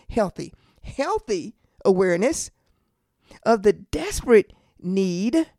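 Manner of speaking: healthy repeated with weight, desperate punched; stress on healthy and desperate. Real, not acted. Preacher having listeners echo him, stress on healthy and desperate. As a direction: hit healthy and desperate, pausing between phrases. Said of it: "I am emphasizing those words".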